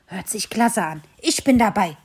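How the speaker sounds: delighted. Acted. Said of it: "rief Bello erfreut".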